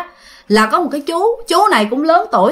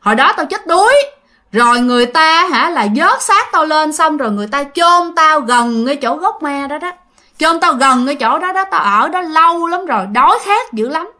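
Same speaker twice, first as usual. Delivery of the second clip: the ghost speaking; 3 semitones higher than usual. Retold or imitated. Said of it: "Còn nói thêm rằng á".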